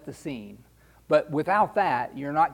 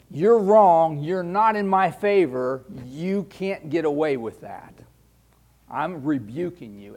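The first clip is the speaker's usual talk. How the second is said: stern rebuke; 7 dB louder than usual. Acted. Voicing God's stern rebuke.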